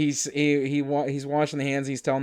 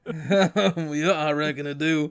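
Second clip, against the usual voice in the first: put-on Appalachian accent; slower than usual. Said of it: "his thick Appalachian accent".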